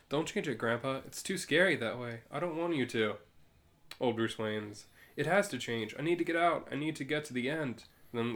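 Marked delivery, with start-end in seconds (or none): 0.1-3.2 lightly voiced little girl, higher pitch; a hint of a child pleading with grandpa. Little girl begging Grandpa not to change the story, lightly pleading. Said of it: "Little girl says". 5.2-7.8 mildly urgent, higher-pitched plea; urgent insistence. Acted. Old Bruce Wayne insisting to the little girl, urgently.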